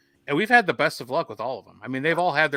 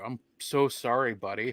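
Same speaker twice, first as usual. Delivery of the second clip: acted consoling; 4 dB quieter than usual. Acting out consoling a hurt dog.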